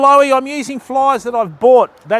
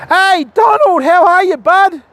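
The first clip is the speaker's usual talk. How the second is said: higher, louder call-out to a mate; hearty greeting; 8 semitones higher, 3 dB louder than usual. Real, not acted. Greeting viewer Donald in chat.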